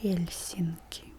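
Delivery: Helsinki with a strong, breath-heavy H at the start, said slowly; strong Russian H. Shown as a demonstration. Teacher showing learners the Russian H, strong H in Helsinki. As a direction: slowly say Helsinki, its H rasped between tongue and palate. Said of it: "stronger than the English H".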